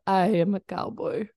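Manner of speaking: put-on second stab at a Russian accent; careful mock-Russian accent; Stalin accent. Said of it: "or however an accent would be for Stalin".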